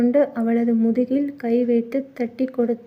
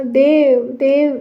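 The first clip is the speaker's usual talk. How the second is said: a touch of tearful calling of the name, a bit louder; crying out; 3 dB louder, slower than usual. Acted. Cornered wife calling her husband's name, mildly tearful. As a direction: call Dev twice as if starting to cry, understated. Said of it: "என்று அழுதாள்".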